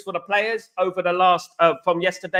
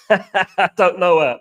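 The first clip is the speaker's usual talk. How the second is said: laughing; 4 dB louder, slower than usual. Real, not acted. Laughing at a viewer's joke.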